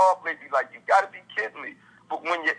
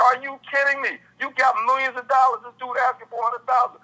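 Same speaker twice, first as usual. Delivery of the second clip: outraged disbelief; 8 semitones higher, 3 dB louder than usual. Retold or imitated. Speaker's retold outraged reaction.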